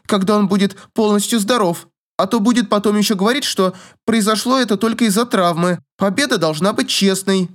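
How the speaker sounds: voiced young lady, defensive; girl's voice. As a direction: play the haughty girl making excuses. Narrator voices young girl.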